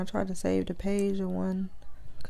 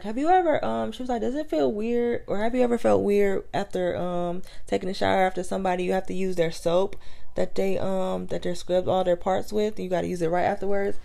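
mock Australian girl.

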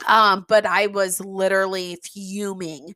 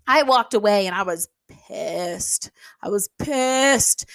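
whisper. Real, not acted. Whispering about being furious.

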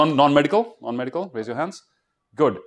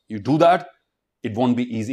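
ordinary talk, nothing marked

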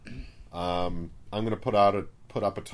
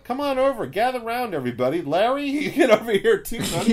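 high, loud crowd-gathering call; loud street performer hustle; 12 semitones higher, 6 dB louder than usual. Pretend. Carnival-style pitch to crowd.

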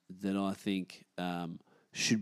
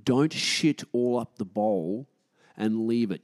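louder, slow, emphatic command; stern scolding; 5 dB louder, slower than usual. Real, not acted. Gym member scolding toilet users, stern and loud. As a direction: lay down the rule firmly.

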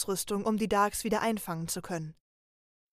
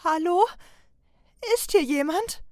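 higher, louder nervous call into the dark; calling out scared, unsure anyone is there; frightened apprentice calling out into an empty hall; fearful call; 8 semitones higher, 7 dB louder than usual. Acted. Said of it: "schaute sich ängstlich um".

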